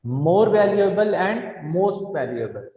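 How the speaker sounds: each word stretched out, unhurried; slow dictation. Shown as a demonstration. Teacher dictating the answer slowly to students. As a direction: dictate it slowly so the class can copy. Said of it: "तो इसमें आप क्या use करेंगे".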